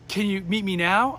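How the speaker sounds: slow question in a lightly put-on voice; Walter Payton. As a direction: ask slowly, with a hint of high voice. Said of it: "Walter had a high voice".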